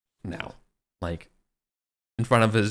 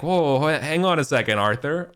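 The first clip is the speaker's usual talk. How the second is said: higher and louder, a startled whoa to hold the king back; alarmed call to stop; 6 semitones higher, 5 dB louder than usual. Retold or imitated. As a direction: throw up your hands and stop him mid-rant. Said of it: "And Yvain's like".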